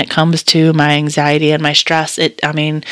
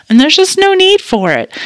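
emphatic; 12 semitones higher, 3 dB louder than usual. Real, not acted. Emphatic reassurance.

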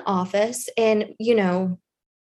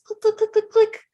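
imitated keyboard clicks; 10 semitones higher, 3 dB louder than usual.

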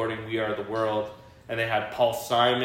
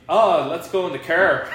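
imitated Irish or Scottish accent, pitched up and louder; son's borrowed accent; 5 semitones higher, 6 dB louder than usual. Dad imitates his son's casual new speech, Irish or Scottish accent. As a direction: mimic a kid's picked-up Irish or Scottish accent. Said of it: "He just started talking with an accent".

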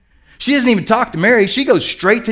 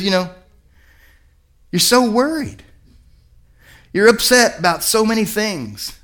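gentle, understated concern; kindly Jesus; 2 semitones higher than usual. Acted. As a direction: observe it tenderly, without blame, pausing between phrases. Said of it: "he just says ever so kindly".

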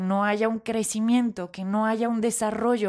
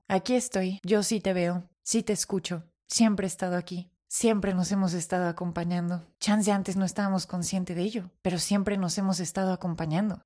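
tender self-talk; 3 semitones lower than usual. Retold or imitated. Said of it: "me dije algo así".

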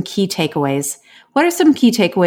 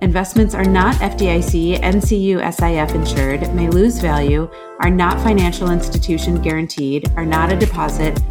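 legal fine print read-out; fast legal disclaimer. Acted. Disclaimer read over music.

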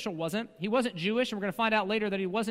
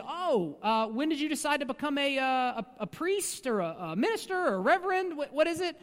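confused stammer; 4 semitones higher than usual. Retold or imitated. Confused people asking pastor's title.

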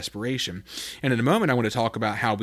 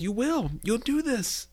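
much higher, sure and bold; David trusting God: firm confident declaration; 13 semitones higher, slower than usual. Acted. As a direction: declare it with total faith. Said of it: "he ends with confidence".

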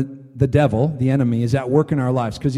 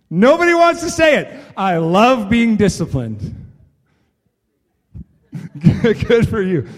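high laughing mock voice; 8 semitones higher, 6 dB louder than usual. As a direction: squeak it out like a reluctant kid. Mocking reluctant crowd, laughing.

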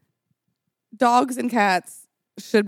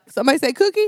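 hawk voice; 5 semitones higher, faster than usual. Pretend. Friend voicing a swooping hawk.

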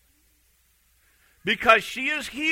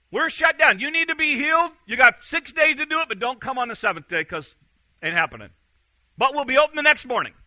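mock officious ruler; 4 semitones higher, faster than usual. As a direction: announce it like closing time. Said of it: "he basically says this".

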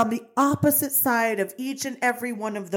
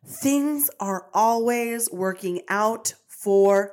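very slow, calm affirmation for listeners to repeat; 3 semitones lower, much slower than usual. Shown as a demonstration. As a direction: savour each word like a mantra. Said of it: "repeat after me".

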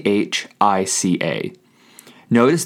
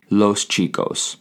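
slow correct form. Shown as a demonstration. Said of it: "the correct way to say".

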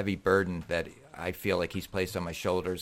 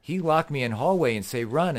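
put-on higher-pitched Russian-accented retelling; 5 semitones higher, 3 dB louder than usual. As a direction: imitate a Russian boxer telling his story. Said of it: "in his Russian accent".

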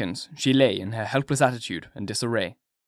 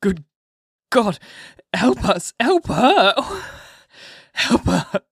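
high, loud, breaking into sobs; a husband begging God to save his wife, sobbing; crying plea; 9 semitones higher, 4 dB louder, slower than usual. A narrator's reading. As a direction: beg God through tears. Husband pleads in despair.

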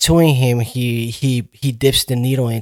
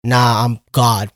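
arrogant god complex; slower than usual. Retold or imitated. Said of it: "high ego on his shit".

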